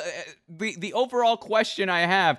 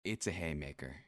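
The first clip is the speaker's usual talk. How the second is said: dramatic low announcer voice; 17 dB quieter than usual. Pretend. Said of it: "dramatic low announcement".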